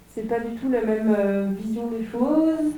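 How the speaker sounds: muffled behind a face mask; through a face mask. Real, not acted. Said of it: "ça frotte avec le masque".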